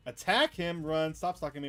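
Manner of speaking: loud frantic orders; panicked shout. Acted. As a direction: yell it in a panic. Player shouting at stalker.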